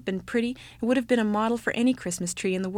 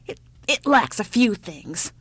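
put-on slow, considering old woman; hesitant appraisal; 4 dB louder than usual. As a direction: weigh it up, stumbling slightly. Old woman critically ponders tree.

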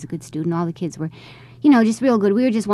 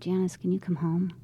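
hushed and barely voiced; quiet plea; 4 dB quieter than usual. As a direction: whisper it like heavy news on the phone. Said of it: "But this time he was real quiet".

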